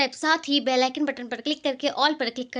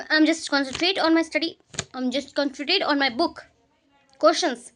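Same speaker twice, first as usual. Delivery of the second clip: slow studious drone; much slower than usual. Pretend. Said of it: "pretends to study".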